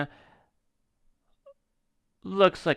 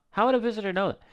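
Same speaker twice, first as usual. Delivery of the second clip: "How would a visitor know that?" much higher, "would" leaned on hard; incredulous high repeat; 11 semitones higher, much faster than usual. Shown as a demonstration. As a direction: say it again way higher in disbelief, stressing "would". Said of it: "Now, how would a visitor know that?".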